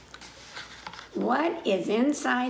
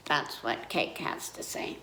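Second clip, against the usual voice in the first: whispered aside; 8 semitones lower, 6 dB quieter than usual. Real, not acted. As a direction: drop to a whisper to let them in on it. Teacher's aside to the kids.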